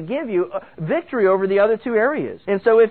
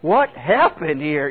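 slow, drawn-out bewilderment; slowly voiced disbelief; bewildered; 4 semitones lower, slower than usual. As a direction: act puzzled, stretching out each word. Acted bewilderment in sudden fog.

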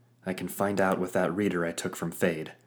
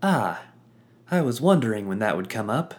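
sly sidekick; 4 semitones higher, 6 dB louder than usual. Acted. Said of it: "Pluck said".

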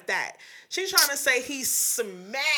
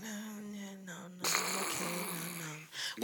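mock dismissive refusal; 4 semitones lower, 10 dB quieter, slower than usual. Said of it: "he just was like".

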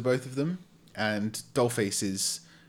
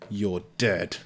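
usual speaking voice

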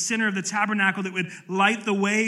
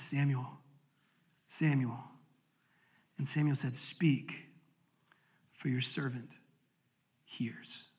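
much softer, fading to a whisper; hushed reverence; 6 semitones lower, 10 dB quieter, slower than usual. Acted. Reading God's call to Samuel, hushed and reverent. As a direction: let it fall away into a breath.

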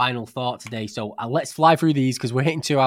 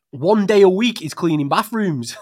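mimicking the wife; 6 semitones higher, 8 dB louder, slower than usual. Mimicking wife's complaint.

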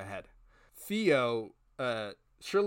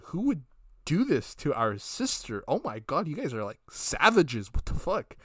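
mock outraged sister; 4 semitones higher, 5 dB louder than usual. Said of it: "Shirley was like".

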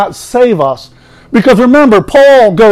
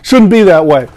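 emphatic refusal. Retold or imitated. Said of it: "He says it emphatically in the Greek language".

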